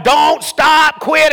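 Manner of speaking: hollering at a charging dog; half-hearted retold hollering. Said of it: "I'm hollering".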